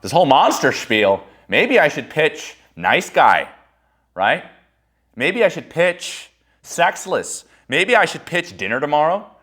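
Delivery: high, slow, fretful self-doubt; high and drawn out, like panicked overthinking; slow, high worried musing; anxious inner voice. Retold or imitated. Second-guessing himself aloud.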